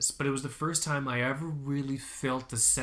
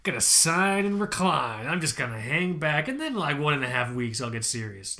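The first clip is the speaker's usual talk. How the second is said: cocky and casual; 4 dB louder than usual. Retold or imitated. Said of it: "In my mind, I'm just like".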